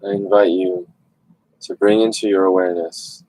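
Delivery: calm meditation guidance with long pauses; guided meditation. Real, not acted. Host leads online group into stillness, guided meditation voice. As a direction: gently guide listeners inward, leaving long silences.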